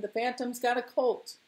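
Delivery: high, lilting crowd call; singsong cry. Acted. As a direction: sing out the happy news. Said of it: "they sang".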